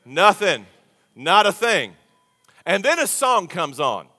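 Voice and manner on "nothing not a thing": call and response. Real, not acted. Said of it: "Everybody say it with me".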